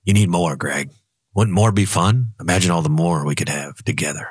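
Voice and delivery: a hint of a sly devil duck; tempting devil voice. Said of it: "the devil duck goes".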